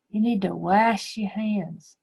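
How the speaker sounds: "wash" with the short a of apple, rhyming with cash; mock wrong sentence. Shown as a demonstration. Teacher shows the class how wrong it sounds. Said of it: "No, no, that does not sound right at all".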